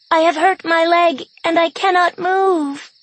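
high, pleading wounded calf cry; calf bawl. Acted. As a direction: bleat it like a hurt calf. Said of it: "in the sad voice of a wounded calf".

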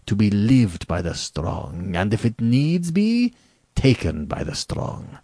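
haughty General, drawn-out emphatic words; arrogant General. Acted. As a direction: lecture with lordly conviction and sweeping pitch.

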